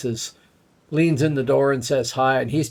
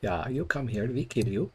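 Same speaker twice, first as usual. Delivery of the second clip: mock travel ad; 6 dB quieter than usual. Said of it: "Sort of Midgard travel promos".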